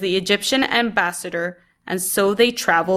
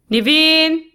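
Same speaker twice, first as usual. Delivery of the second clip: urgent shout; 9 semitones higher, 6 dB louder than usual. A narrator's reading. Urgent call from sickroom.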